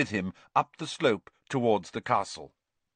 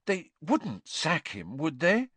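higher, slower anxious question; anxious Hermione; 6 semitones higher than usual. A narrator's reading. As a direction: plead for reassurance, pitched up. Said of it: "said Hermione anxiously".

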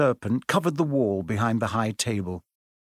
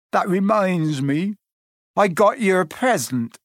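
Hagrid voice; 7 semitones higher, 3 dB louder than usual. A narrator's reading.

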